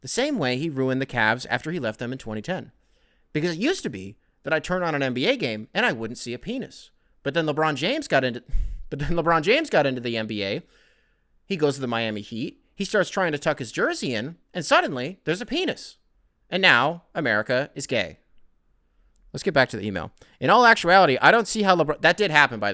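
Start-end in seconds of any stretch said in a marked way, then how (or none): 0.0-8.4 improvised mock-outraged pundit voice; Tucker Carlson. Host improvising a pundit's rant, mock-outraged commentator voice. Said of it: "see if I can keep this going". 8.9-18.2 improvised mock-outraged pundit voice; Tucker Carlson. Host improvising a pundit's rant, mock-outraged commentator voice. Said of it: "see if I can keep this going".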